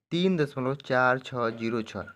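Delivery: slow, each of "चार छः जीरो छः" on its own; measured teacher's demo, "चार छः जीरो छः" slowly separated; digit by digit. Shown as a demonstration. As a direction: spell out "चार छः जीरो छः" one digit at a time. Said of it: "ऐसे एक एक करके पढ़ेंगे".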